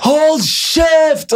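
high drawn-out yell; ropt kommando. Acted. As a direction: shout it out like a whole crowd on cue. Alle roper det på tre. (langt, høyt rop)

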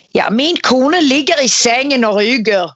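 put-on Norwegian with a Danish accent. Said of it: "sier den danske".

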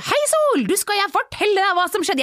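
dad's high, playful diversion; cheery distraction. Retold or imitated. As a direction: pull the child in with sudden excitement. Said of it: "Han sier".

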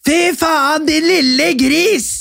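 high, slow, mocking drunk woman; mock drunk outburst. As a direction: ham up her tipsy scolding. Friend's drunk outburst quoted.

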